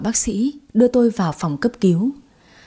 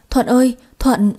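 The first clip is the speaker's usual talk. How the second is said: calling after him; 4 semitones higher than usual. Acted. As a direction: call him back as he runs. Mother calls after fleeing man.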